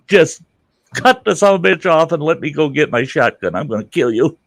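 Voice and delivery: patient threatening the doctor in anger; angry threat. Retold or imitated. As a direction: snap it at the doctor.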